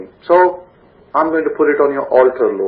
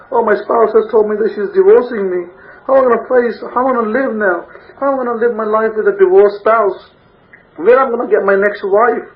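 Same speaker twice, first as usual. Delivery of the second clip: higher, imitating a panicking abandoned spouse; anguished lament; 5 semitones higher than usual. Divorced husband frets aloud over his future, mock anguish. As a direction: ham up the man whose wife is leaving. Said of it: "these are the kind of things".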